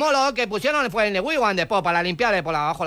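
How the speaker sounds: put-on foreign accent with L for R; foreign-accented broken Spanish; mock foreign accent. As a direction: play a foreigner mangling Spanish, R turned to L. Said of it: "¿Qué quiere decir el de".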